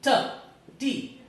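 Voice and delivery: voiceless T, tongue on the palate, no throat; sound T. Shown as a demonstration. Teacher demonstrating the voiceless T. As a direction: release T with just a puff of air. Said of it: "if I talk about the word".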